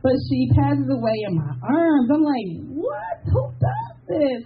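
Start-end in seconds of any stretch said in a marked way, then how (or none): 2.7-4.4 astonished cry. Retold or imitated. Mother passes in her arms.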